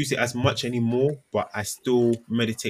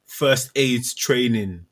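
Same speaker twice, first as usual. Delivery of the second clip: very slow, louder, word-by-word email demand; email in caps; 2 semitones higher, 5 dB louder, much slower than usual. Acted. Line manager emailing staff about training, slow capital-letter emphasis. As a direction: hammer each word as if typed in capitals. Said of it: "in caps".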